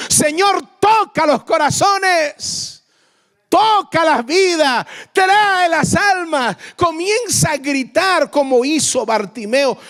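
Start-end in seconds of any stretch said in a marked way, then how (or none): 0.1-6.6 raised, higher-pitched, drawn-out plea; crying out to Jesus. Acted. Preacher pleading with Jesus for souls, crying out. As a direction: call out to heaven with stretched words. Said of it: "Gritarle a Jesús".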